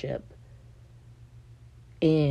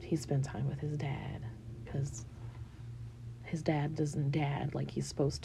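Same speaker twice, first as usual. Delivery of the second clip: whisper; 5 dB quieter than usual. Real, not acted. Confiding about son's father.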